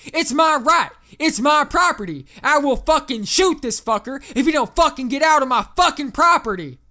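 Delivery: furious high-pitched southern shout; enraged southerner. A narrator's reading. Landowner cuts off the operator over his property, pissed-off shouting. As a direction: yell the threat at full force, thick southern accent. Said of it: "He sounded pissed as fuck".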